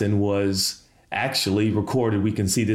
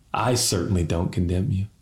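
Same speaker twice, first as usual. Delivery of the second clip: quiet, tender pardon; 4 semitones lower than usual. Shown as a demonstration. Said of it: "Can every preacher say that?".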